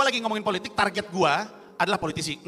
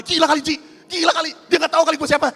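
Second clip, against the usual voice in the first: a touch of angry disbelief, higher; mild angry outburst; 8 semitones higher, 5 dB louder than usual. Retold or imitated. Pak Indro venting anger to the comic, mildly angry. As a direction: huff it out, offended. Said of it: "Pak Indro marah banget".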